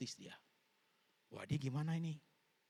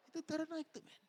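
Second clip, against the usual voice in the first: punchline; faster than usual. Pretend. Punchline to congregation.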